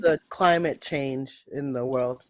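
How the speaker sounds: slow, drawn-out sarcasm; sarcastic. Real, not acted. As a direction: stretch out the fake enthusiasm, dripping irony. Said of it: "she's so sarcastic".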